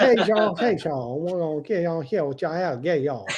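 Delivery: lightly voiced Cajun cook accent. Imitating a Cajun TV cook greeting viewers, light Cajun accent. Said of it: "that crazy Cajun accent".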